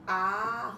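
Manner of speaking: a lone, held A; syllable by syllable. Shown as a demonstration. Teacher begins separating the word for pupils, A on its own. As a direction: give the A of abacaxi as its own beat. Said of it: "vai separar a sílaba".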